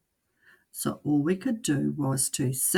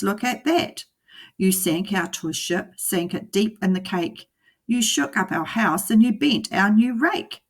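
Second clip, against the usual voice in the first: louder, scolding fish; the fish ordering the cat out; angry fish; 4 semitones higher, 4 dB louder than usual. Acted. The fish telling the cat to get out, loud and scolding.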